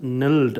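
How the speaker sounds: nilled as an unstressed 'nld', vowel nearly gone; reduced syllable. Shown as a demonstration. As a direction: shrink nilled to a quick 'n'ld'. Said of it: "stress ചെയ്ത് പറയുന്നില്ല". ('nilled' stress ഇല്ലാതെ 'നൽഡ്')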